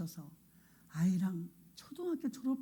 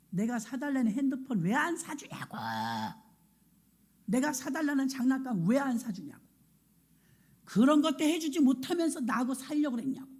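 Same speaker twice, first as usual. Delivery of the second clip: put-on resentful child; 5 semitones higher than usual. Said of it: "엄마를 가슴을 후벼 파는 소리".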